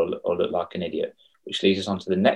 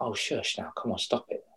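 mock brush-off; 13 dB quieter than usual. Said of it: "She's like".

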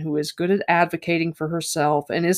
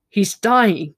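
mild cry; 3 semitones higher, 5 dB louder than usual. Acted. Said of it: "he cried".

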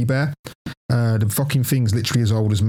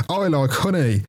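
higher toy-bear voice; Winnie the Pooh doll; 4 semitones higher, slower than usual. Retold or imitated. Friend imitates his bear doll, higher toy voice. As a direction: recite it like a talking toy. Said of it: "Then it'd go, um".

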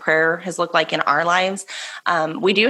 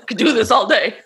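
laughing; 3 semitones higher, 4 dB louder than usual. Real, not acted. Giggling after a silly voice.

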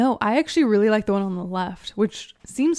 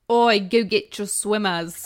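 put-on Australian accent. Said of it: "Can you say it in an Australian accent".

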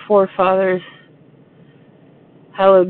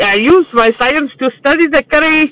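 put-on Indian accent; 4 semitones higher than usual. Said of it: "the Indian guy".

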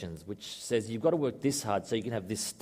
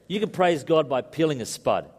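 put-on emphatic Scottish accent, pitched up; a Scottish missionary father's accent, raised in pitch; 5 semitones higher, 4 dB louder than usual. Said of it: "tempted to do it in a Scottish accent".

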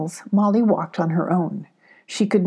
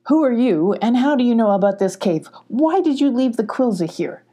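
louder, gruff challenge to a stranger; stern demand; 5 semitones higher, 3 dB louder than usual. Acted. Big dog Moon confronting Molly, stern demand. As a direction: demand answers from the intruder. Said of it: "demanded the huge dog".

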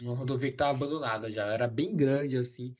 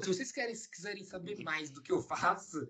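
coach pitch voice. Retold or imitated. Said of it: "Quase que ele virou pra vocês e falou".

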